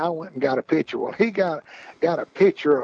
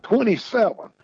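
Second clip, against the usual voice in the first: mock yell; 7 semitones higher than usual. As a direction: imitate someone yelling out a number. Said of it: "somebody'd yell out".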